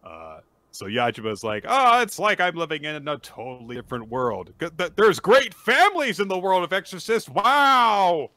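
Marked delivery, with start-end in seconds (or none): 1.7-8.3 gushing awe building to a loud, high wow; mock amazement. Host voices Yajima marvelling at a new world, mock amazed. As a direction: overplay the wide-eyed wonder.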